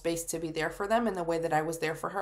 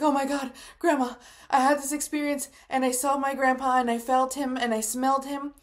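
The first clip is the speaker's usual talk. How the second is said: excited retelling; 6 semitones higher, 4 dB louder than usual. Retold or imitated. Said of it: "I'm crying hysterically".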